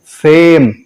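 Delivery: सेम with a drawn-out "ay"; long A. Shown as a demonstration. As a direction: hold the vowel in सेम. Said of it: "long sound में करेंगे". (सेम में लंबा ए)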